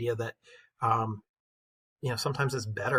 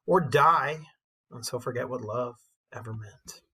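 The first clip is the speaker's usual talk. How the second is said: a teacher performing Elizabeth's poem with feeling; poem recitation. Acted. Teacher reads the poem aloud.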